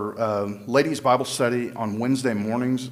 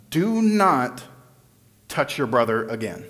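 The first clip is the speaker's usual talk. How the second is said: scolding parent warning; stern parent. Retold or imitated. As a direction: warn the kids firmly.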